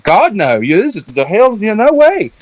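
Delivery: mock protest climbing high in pitch; retold horrified refusal. Mother refusing to show baby to cult people, appalled. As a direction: imitate an appalled, emphatic refusal.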